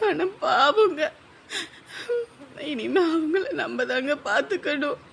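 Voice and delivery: crying. Acted. Wife weeping about brother.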